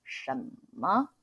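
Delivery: 什么 said the Taiwanese way, 什 as a soft s; relaxed Taiwanese 什么 with a plain s; Taiwan-style 什么 with the s sound; Taiwanese accent. Shown as a demonstration. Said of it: "we actually pronounce more like".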